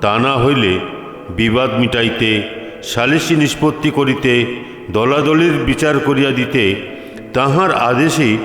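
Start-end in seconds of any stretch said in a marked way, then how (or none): none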